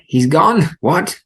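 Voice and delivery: high, loud exclamations; surprised. Acted. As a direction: gasp it out in shock. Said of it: "says Cooper".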